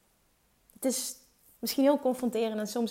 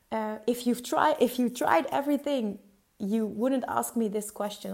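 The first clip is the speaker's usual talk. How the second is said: imitating Tony Robbins. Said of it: "Dat is wat hij schreeuwde toen".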